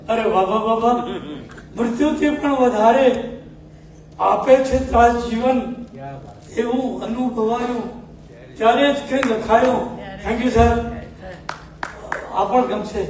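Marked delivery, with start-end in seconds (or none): 1.8-9.9 measured, sung-through poetic recital with pauses between half-lines; ghazal recitation. Acted. Poet reciting his ghazal to a mushaira audience, declaiming. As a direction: recite each couplet, then repeat it with more weight.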